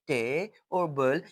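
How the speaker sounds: टे and बल each said as a separate syllable; teacher sounding out टे और बल part by part; split into syllables. Shown as a demonstration. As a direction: break the word into टे, then बल. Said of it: "ये different two syllable है".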